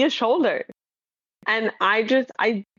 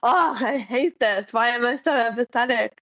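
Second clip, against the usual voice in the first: mock exasperation; 4 semitones higher than usual. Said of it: "direction that I'm like".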